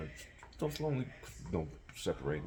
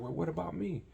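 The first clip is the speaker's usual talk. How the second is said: mock whiny girlfriend; 12 semitones higher than usual. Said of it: "Then she's like".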